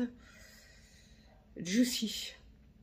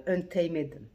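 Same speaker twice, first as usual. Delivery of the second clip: drawn-out English word in a French accent; 6 dB louder than usual. Real, not acted. Vlogger reading out an English shade name, apologetic English accent. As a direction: attempt the English shade name, loud and slow. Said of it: "mon accent anglais".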